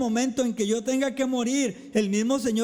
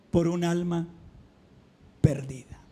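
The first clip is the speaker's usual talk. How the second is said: hushed whisper; 5 semitones lower than usual. Acted. Solemn point about lost souls.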